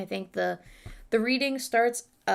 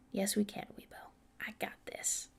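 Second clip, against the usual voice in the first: whispering; 11 dB quieter than usual. Real, not acted. Psyching herself up mid-reading.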